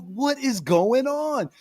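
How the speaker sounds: slow disbelief. Retold or imitated. Disbelief at grandma's defense.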